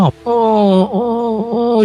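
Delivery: slow drawn-out high moans; mock sleep moaning. Friend moaning in his sleep, imitated. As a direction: groan like someone in a nightmare, imitated. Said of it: "이러면서 자는 거예요".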